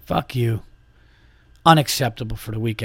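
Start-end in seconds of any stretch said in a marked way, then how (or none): 0.0-0.6 muttered curse. Retold or imitated. Muttered insult at the man.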